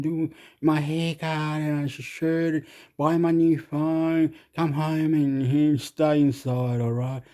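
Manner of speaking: lightly voiced rambler talking about his day; rambling quoted man. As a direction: play a dithering stranger, drawn out. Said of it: "It was thirty-seven degrees yesterday".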